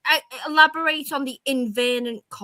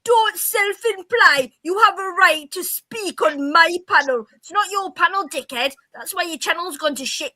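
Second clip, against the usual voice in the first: higher-pitched, scornful telling-off; angry retort; 5 semitones higher than usual. Real, not acted. Woman scolding the host on his own panel, high and scornful. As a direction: put him down hard. Heated quarrel continues.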